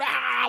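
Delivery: high, wild mock Tasmanian devil roar; Tasmanian devil growl. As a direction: snarl like a cartoon devil. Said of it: "like Tasmanian devil".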